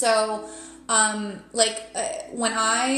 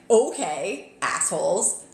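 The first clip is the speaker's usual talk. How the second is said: exasperated, irreverent "okay"; irreverent backtalk; 3 semitones lower, slower than usual. Retold or imitated. Tarot reader answering spirit guides, irreverent backtalk. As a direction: talk back cheekily to your guides. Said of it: "that's how I speak to my spirit guides".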